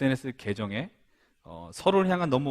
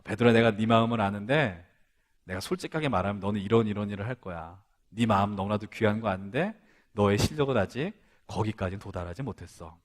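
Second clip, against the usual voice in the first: gentle, understanding; 5 semitones lower than usual. Pretend. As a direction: lay it down tenderly, like a friend who knows. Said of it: "저는 그것은 아니었던 것 같아요".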